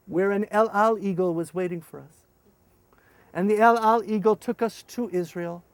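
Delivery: ordinary delivery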